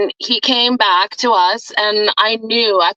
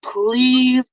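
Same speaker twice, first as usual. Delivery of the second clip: plea to the universe, stretched out and higher at the end; passionate prayer; 3 semitones higher than usual. Retold or imitated. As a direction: build into a slow, heartfelt appeal. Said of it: "I could just hear the passion in your voice when you said".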